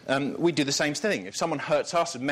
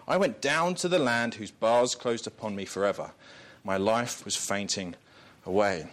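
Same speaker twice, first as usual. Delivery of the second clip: scripture reading. Acted. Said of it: "Jonah says".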